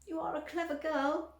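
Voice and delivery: breathy admiring whisper; mother whispering proudly to Violet. A narrator's reading. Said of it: "said Missus Beauregard".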